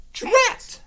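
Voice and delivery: high, loud Drat; cross exclamation. Acted. Ghost cursing the stuck pumpkin, annoyed. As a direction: blurt it out, frustrated. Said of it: "said the mummy".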